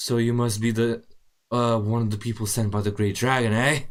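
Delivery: metallic, machine-like construct voice. Game master voicing a warforged approaching the players; metallic warforged voice. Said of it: "it sounds like a metallic".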